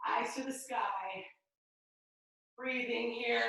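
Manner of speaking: soft, slow stretching cues; calm cool down. Acted. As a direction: ease them into rest.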